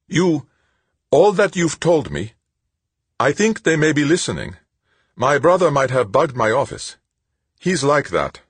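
high, loud, alarmed urgency; frantic fear of being overheard; panicked warning. A narrator's reading.

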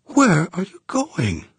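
high, breathless, frightened woman; breathless fright. Acted. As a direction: gasp the question out in fear. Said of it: "breathless with fear".

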